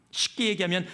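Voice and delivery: ordinary talk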